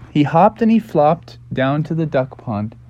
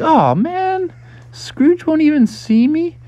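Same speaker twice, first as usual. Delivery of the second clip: disappointed; slower than usual. Acted. Frog turned away at door.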